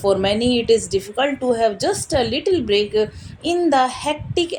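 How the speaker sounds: slow, measured read-aloud; book reading. Acted. Reading a meditation book aloud to viewers, slow and measured. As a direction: read it out slowly, phrase by phrase.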